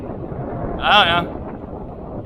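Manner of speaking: very slow hushed whisper; whispered reply. Retold or imitated. Friend statue answering, slow hushed whisper. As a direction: breathe out a clueless answer.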